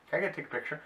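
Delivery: hammed-up small-time crook begging a selfie; eager Two Bits. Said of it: "throws his arm around his shoulder".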